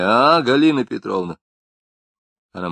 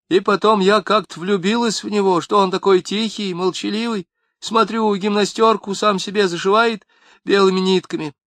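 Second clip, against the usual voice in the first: high, louder woman's lament; tearful wife; 10 semitones higher, 5 dB louder than usual. A narrator's reading. Wife pours out her grievances to Lapshin, high and tearful. Wife voiced throughout monologue.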